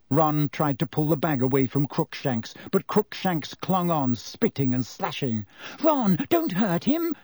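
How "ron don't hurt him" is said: high, urgent squeal. A narrator's reading. Hermione begging Ron to spare her cat, high squeal. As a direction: shriek it up high to stop him. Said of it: "squealed Hermione".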